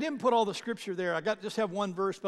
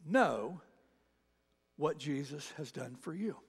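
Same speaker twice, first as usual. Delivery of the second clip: ordinary talk, nothing marked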